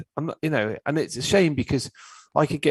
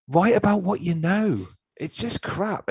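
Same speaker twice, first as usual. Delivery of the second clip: mocking tone; 8 semitones higher, slower than usual. Mocking industry advice.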